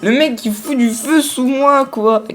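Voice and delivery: high, squeaky outrage; outraged. Real, not acted. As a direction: squeal it in disbelief. Outraged at fire set under him.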